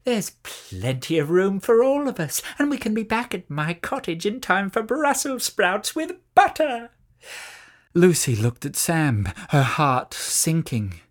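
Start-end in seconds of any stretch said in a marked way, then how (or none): 0.0-6.9 higher witch voice, sugary and coaxing; sly witch. A narrator's reading. Witch coaxing the children onto her broom, higher and sugary. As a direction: lure them onto the broom sweetly.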